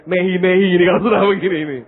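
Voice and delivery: fast, lightly put-on Indian accent; Indian English accent. Preacher imitating Indians head-wobbling, light Indian accent. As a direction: rattle off a hint of an Indian accent. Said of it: "saya bilang".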